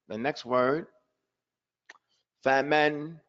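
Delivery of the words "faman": "faman" with both a's open and equally long; equal vowel lengths. Shown as a demonstration. Teacher reads the next word, correctly pronounced. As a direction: give each syllable of "faman" the same open length. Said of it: "has to be the same exact length".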